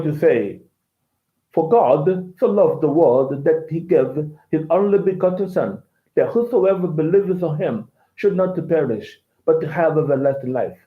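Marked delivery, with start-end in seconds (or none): 1.5-10.8 a light hint of a Nigerian accent; mild imitation of a Nigerian accent; Nigerian English. Shown as a demonstration. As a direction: read the verse with Nigerian English sounds. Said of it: "Nigerian English".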